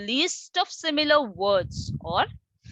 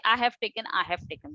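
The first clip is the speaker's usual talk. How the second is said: repeating stumble; faster than usual. Shown as a demonstration. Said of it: "we don't say".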